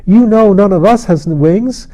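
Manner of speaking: put-on a wild little boy bragging to the king about his nest; wild excited child. A narrator's reading. Child character voice.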